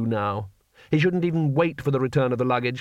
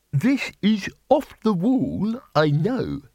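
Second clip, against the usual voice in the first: higher, slow chirpy bursar; bright; 7 semitones higher, much slower than usual. A narrator's reading. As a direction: chirp it out cheerfully. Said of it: "said the bursar brightly".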